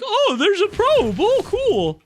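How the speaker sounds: high, loud mocking voice of the opponent; high, loud mocking take on the opponent. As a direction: mimic the opponent as a clueless fool. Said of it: "he's like".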